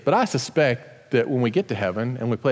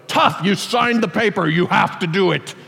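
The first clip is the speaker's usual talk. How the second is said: mock stern; 3 semitones higher than usual. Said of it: "we are not going to go".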